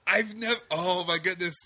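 a hint of Gottfried squawk. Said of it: "I could do Gilbert Gottfried".

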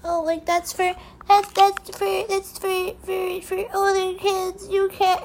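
high, slowed mock-prissy whine; mocking scold. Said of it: "I'm so sick of people like".

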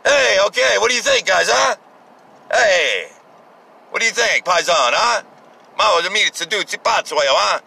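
lightly voiced Italian mob boss; a hint of a mob boss working the room; mild mock mafioso voice. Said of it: "like the Italian mob boss going".

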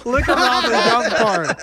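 giggling through the words; laughing. Real, not acted. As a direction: laugh while repeating it. Laughing repeat.

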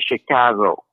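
Chicago said in a Midwest accent; lightly Midwestern "Chicago". Shown as a demonstration. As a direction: show how a Midwesterner says Chicago. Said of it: "That's the Midwest accent".

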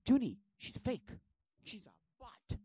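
high, loud, emphatic mock plea; urgent warning. Sister warning Junie, insistent. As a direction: call it out high and slow.

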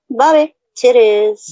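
slow, spaced Bobby, titties; slow deliberate. Real, not acted. Spelling it out slowly for the stream. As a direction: drag out each word.

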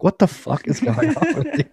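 high, slow incredulous voice; slow it down and lift it in disbelief; a hammed-up incredulous retort to the repairman; mock disbelief. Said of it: "I'm like".

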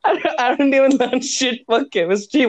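talking through laughter; laughing. Real, not acted. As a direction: laugh the words out. Laughing while speaking.

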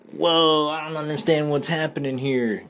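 high, loud mock astonishment; bewildered wonder. Storyteller voicing a kid's confusion, high bewildered exclamation. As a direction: exclaim like an overwhelmed kid, lightly imitated.

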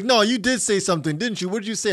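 high-pitched pressing questions; insistent boss. Retold or imitated. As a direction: imitate a boss demanding a confession. Imitated boss presses him for answer.

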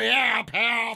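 loud cheerful cheer; celebratory shout. Real, not acted.

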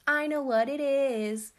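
high, very loud, drawn-out boast; gleeful shout. A narrator's reading. Seven-year-old sister bursting with a secret, loud shout. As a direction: sing out the secret as an excited child. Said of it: "shouted the seven-year-old sister".

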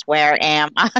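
flat robotic voice. Retold or imitated. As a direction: say it like a confused robot. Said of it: "then it's the robot voice".

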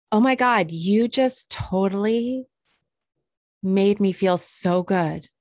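a hint of a deeply touched guy; touched salon guy. Salon guy telling her she made him feel good, lightly voiced. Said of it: "And he's like".

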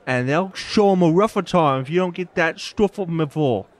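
loud, high gruff Cockney barman shouting; loud angry barkeep; gruff bartender. Acted. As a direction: bark at them like a grumpy publican. Bartender character voice.

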